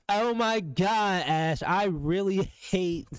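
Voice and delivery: slow, drawn-out mimic of a gushing texter; mock him dramatically; mocking quote. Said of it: "That nigga said".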